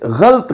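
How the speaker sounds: गलत as ghalt; common mispronunciation. Shown as a demonstration. Teacher showing the widespread form, गलत as ghalt. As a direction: squeeze गलत into one syllable, ghalt. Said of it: "इस तरह से".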